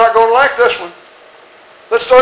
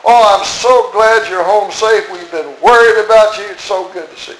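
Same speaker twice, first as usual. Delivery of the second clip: mock gushing welcome; 2 semitones higher than usual. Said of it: "Is that what it says in your Bible?".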